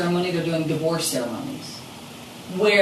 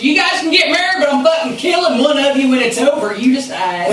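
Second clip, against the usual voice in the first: mock threat; 8 semitones higher, 6 dB louder than usual. Joking threat to marry off.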